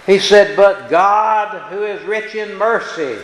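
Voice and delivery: loud, slow scripture reading; preaching scripture. Acted. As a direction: proclaim the verse to the congregation. Reads scripture loudly.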